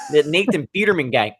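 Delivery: badly imitated coach's accent on "Peterman guy"; bad Gruden accent. Host imitating a coach praising his quarterback, bad accent. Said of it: "That was a bad accent".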